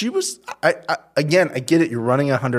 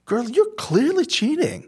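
mock callout; 13 semitones higher than usual. Friend calls out a cheater.

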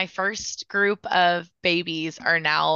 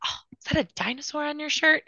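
put-on playful to a child; 9 semitones higher, faster than usual. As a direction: draw a crying boy's attention to his shirt. Distracting a crying child playfully.

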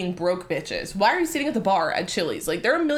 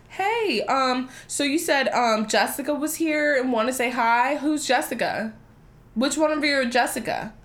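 feigned friendliness; 3 semitones higher than usual. Retold or imitated. Confronting the girls, retold.

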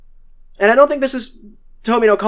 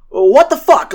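mock outraged yell; 4 semitones higher, 6 dB louder, slower than usual. Retold angry confrontation in office.

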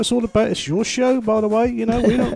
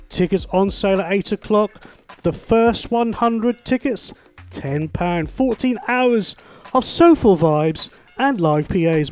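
running out of air; slower than usual. Real, not acted. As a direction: voice thinning at the end of one long breath. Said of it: "I said all that without taking a breath".

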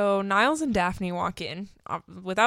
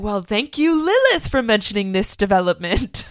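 sarcastic; 2 semitones higher, 6 dB louder than usual. Retold or imitated. Fraser sarcastic to ex-wife.

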